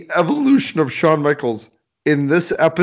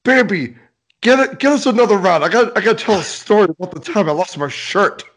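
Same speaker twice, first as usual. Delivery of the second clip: put-on rowdy drunk; 5 semitones higher, faster than usual. Co-host voices drunk Shawn.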